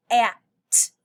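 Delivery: "At" said loud with a stretched short a; stretched a sound. Shown as a demonstration. Teacher to children, stressing the a sound. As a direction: sound out "At" with a long, loud a vowel. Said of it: "Did you hear a?".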